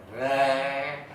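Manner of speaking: drawn-out creaking door noise; imitated door creak. Preacher telling of a noise in the toilet, imitated creak. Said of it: "pintu bunyi".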